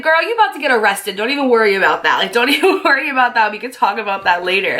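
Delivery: high, fast and reassuring; reassuring friend. Retold or imitated. To a panicking friend, telling her not to worry, high and fast. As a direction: brush off her worry, quick and high-pitched. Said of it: "And I was like".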